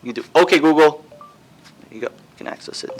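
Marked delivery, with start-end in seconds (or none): 0.3-1.0 repeating to voice assistant. Real, not acted. Waking the voice assistant.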